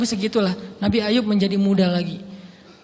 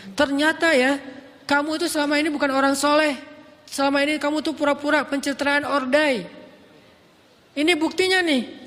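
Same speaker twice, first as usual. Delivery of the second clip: accusing; 5 semitones higher than usual. Retold or imitated. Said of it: "ada yang sampai nuduh gini".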